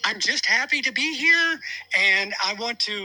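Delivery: high voice. Acted. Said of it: "you have a high voice like that".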